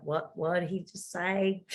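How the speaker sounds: slow, puzzled question; mock bafflement. Locals hearing a fast-talking East Coaster, mock bafflement. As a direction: draw it out as if you can't follow. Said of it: "they're gonna look at you like".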